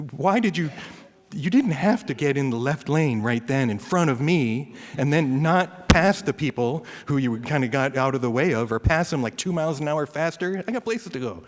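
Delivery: mildly exasperated driver's grumble; mock mad. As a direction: scold another driver, pitch lifting toward the end. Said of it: "but I can get mad".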